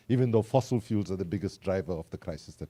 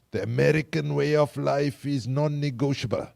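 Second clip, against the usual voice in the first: a bad, higher-pitched American accent as George Bush Senior; a clumsy American accent; terrible American accent; 6 semitones higher, 3 dB louder than usual. Speaker quoting George Bush Senior, in a terrible American accent. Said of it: "I know that was a terrible accent".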